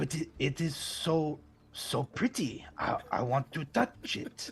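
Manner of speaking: fake French accent, slow and drawn out. Speaking in character, trying an accent that turns out French: put-on French accent. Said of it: "It's all French".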